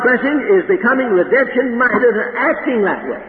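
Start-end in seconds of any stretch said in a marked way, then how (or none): 2.4-3.2 "acting" leaned on, then "that way" falling away; emphasize the word "acting"; "acting" set out firmly as the key word; stress on acting. Real, not acted. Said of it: "I emphasize the word acting".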